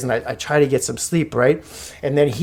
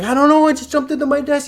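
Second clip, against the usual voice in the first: high, flustered protest; acted-out flustered reply; retold panic; 11 semitones higher, faster than usual. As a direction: explain yourself in a high, helpless pitch. Retelling own panicked reply.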